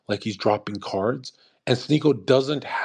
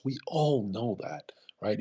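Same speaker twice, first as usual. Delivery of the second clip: whispered aside; 2 semitones lower, 6 dB quieter than usual. Real, not acted. Aside to viewers about Sonny.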